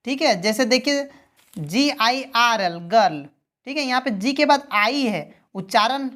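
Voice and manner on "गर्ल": "गर्ल" with a hard g, not j. Shown as a demonstration. Teacher showing an exception to learners, "गर्ल" with hard g. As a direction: say "गर्ल" starting on a hard g sound. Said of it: "यहाँ पे ग हो रहा है".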